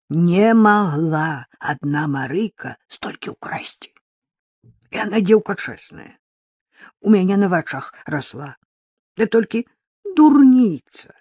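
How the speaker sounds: slow, grieving country granny; old village woman. Acted. Old woman telling the reporter about Maryka, slow and sad. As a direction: let the old woman defend Maryka sadly.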